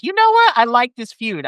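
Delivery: sudden high excited squeal on the first words. Retold or imitated. Fan reacting to the British boys' promo, excited squeal. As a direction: gush like a thrilled fan.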